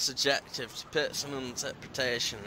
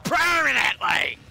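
high, slow shouted decree; high mock proclamation; 11 semitones higher, 4 dB louder than usual. Acted proclamation to devs.

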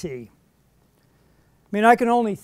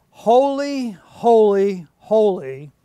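loud, emphatic holy, each one stepping down in pitch; crying out; 5 dB louder, slower than usual. Acted. Preacher reads the seraphim calling to one another, crying out. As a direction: proclaim it strongly, word by word. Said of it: "And one cried to another".

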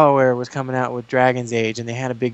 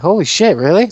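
higher and louder, mock amazed; retold surprise; 6 semitones higher, 6 dB louder than usual. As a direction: replay the shock of meeting a developer. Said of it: "I'm like".

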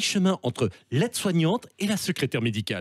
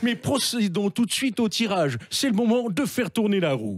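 Stéphane Bern impression; 3 semitones higher than usual. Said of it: "avec Stéphane Bern".

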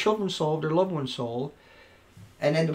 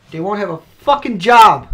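loud burst; 9 dB louder than usual. Real, not acted. Ranting, sudden loud line.

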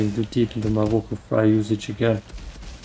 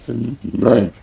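German nein; 3 dB louder than usual. Retold or imitated. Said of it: "the German accent was weird here".

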